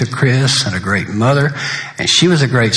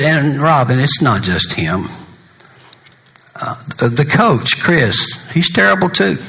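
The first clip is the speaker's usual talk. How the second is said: higher, half-joking outrage at the coach; playful mock outrage; 5 semitones higher than usual. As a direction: tease him like it's a scandal. Teasing Robin about the coach.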